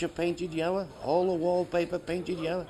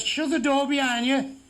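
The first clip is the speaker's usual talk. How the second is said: official's order; 5 semitones higher than usual. Retold or imitated. Official testing a deaf claimant, raised bossy call. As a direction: test him with a raised order.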